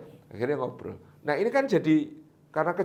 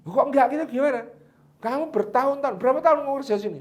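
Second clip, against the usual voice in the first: puzzled master; 10 semitones higher, 5 dB louder, faster than usual. Acted. Master questions the gardener.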